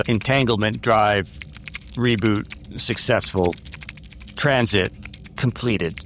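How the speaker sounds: lightly mechanical, level delivery with pauses between phrases. Acted. Game master voices a fused doctor turned machine, lightly mechanical. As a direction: recite it in pieces, like a hint of a machine. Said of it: "his voice kinda becomes mechanical".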